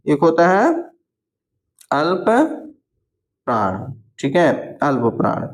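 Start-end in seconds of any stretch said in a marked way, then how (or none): 1.9-3.8 drawn-out, syllable by syllable dictation; spelled-out slow teacher dictation. Shown as a demonstration. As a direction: break the word apart slowly for the class.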